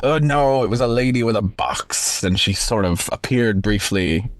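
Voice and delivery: put-on light pirate accent; a hint of a pirate sailor's accent. Host acts out telling sailors the story, light pirate accent. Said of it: "doing a pirate accent".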